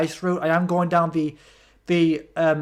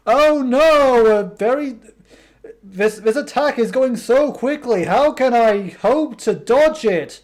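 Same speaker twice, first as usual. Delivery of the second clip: sarcastic mock alarm; 3 semitones higher, slower than usual. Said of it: "it's very sarcastic".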